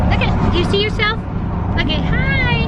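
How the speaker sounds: high, sing-song pet voice. Real, not acted. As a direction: coo at the dog in a high voice. Baby talk to dog.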